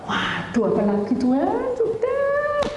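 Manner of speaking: hammed-up horror, soaring high at the end; horrified exclamation. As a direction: wail in dismay, rising to a high squeal. Horrified at seeing the toilet.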